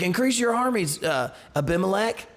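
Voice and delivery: put-on high, drunken call to arms; a tipsy boaster calling the crowd to arms; drunken rallying cry. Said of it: "I'm making that, like, voice up".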